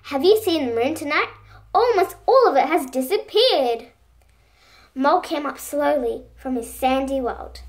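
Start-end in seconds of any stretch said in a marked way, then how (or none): 0.1-3.9 calling loudly. Acted. Bilby calls loudly down to Mole. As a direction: call out into the dark, louder. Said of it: "called little Bilby loudly".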